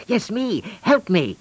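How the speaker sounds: high, urgent little voice; small voice. Acted. Talking stick begs Blue Cow for help, small voice. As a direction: plead from down in the grass, pitched high. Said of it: "said a small voice".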